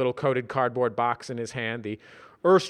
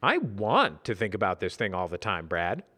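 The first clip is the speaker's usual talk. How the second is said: earnest; 4 semitones lower than usual. Acted. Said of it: "said Simon earnestly".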